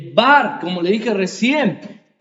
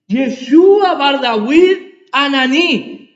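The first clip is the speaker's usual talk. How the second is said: slow, louder "Yeshua Bar Dawid Anani"; Aramaic cry; 5 dB louder, slower than usual. Retold or imitated. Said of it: "Él gritaba". (el ciego clama en arameo, lento y fuerte)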